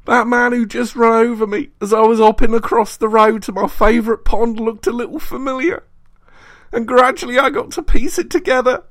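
very high, loud enraged roar; furious bellow. A narrator's reading. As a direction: rant in mounting fury. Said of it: "he bellowed".

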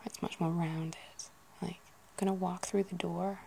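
door rounded, with an American r; a touch of American on door. Retold or imitated. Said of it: "the more American U S are".

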